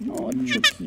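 very high squeaky coo; high squeal. Real, not acted. Owner cooing to her pet bird, very high.

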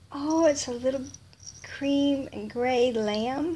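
ordinary delivery

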